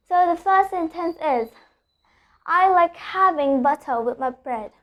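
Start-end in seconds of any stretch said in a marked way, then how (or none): 2.5-4.7 "butter" with the final R dropped; British non-rhotic R. Shown as a demonstration. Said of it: "I'm not pronouncing the R".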